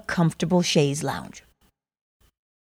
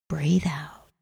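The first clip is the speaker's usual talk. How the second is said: soft whispered exhale cue; right in your ear; 4 semitones lower, 6 dB quieter than usual. Acted. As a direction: whisper it close and gentle. Breathing cue in meditation.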